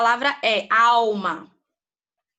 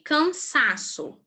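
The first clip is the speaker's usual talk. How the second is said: cansaço drawn out slowly, each syllable spaced; slow teacher spelling-out voice; 3 semitones higher, much slower than usual. Shown as a demonstration. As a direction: stretch out cansaço so the class can count syllables. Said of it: "Trissílaba".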